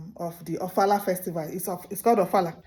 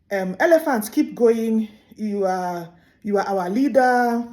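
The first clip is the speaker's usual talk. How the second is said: loud, slow hailing praise; flattering tortoise; 5 dB louder than usual. Acted. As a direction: hail the elephant lavishly. Tortoise praising elephant to cover lie.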